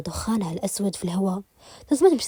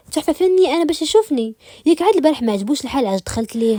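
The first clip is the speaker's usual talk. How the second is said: indignant protest; 5 semitones higher, 6 dB louder than usual. Acted. Summoned again, she objects.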